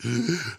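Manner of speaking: sharp wheezy gasp for breath; gasping for air. Shown as a demonstration. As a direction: gulp for air like you can't breathe. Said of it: "like, gasping for air".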